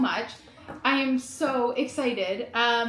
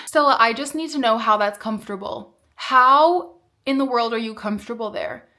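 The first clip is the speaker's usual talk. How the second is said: talking to the dog; 7 dB louder than usual. Real, not acted. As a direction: ask the dog in playful disbelief. Incredulous questions to her dog.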